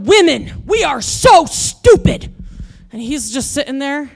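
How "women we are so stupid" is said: higher, louder, slow furious outburst; angry rant. Retold or imitated. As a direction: shout your frustration at the injustice. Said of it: "I am so mad at this point".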